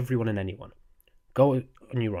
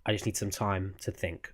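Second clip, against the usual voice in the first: calm. Shown as a demonstration. Showing viewers how to calmly ask for space. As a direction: state it calmly, no raised voice. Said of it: "just say calmly in a calm expression".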